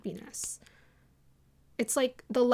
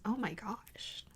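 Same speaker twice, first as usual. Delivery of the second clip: unvoiced, amused whisper to herself; whispered aside; 10 dB quieter, slower than usual. Real, not acted. Reader whispering at her own dramatic message.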